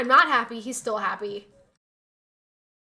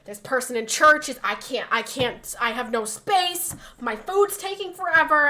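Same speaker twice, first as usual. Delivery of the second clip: mock grouchy rant; 5 dB louder than usual. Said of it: "he was like".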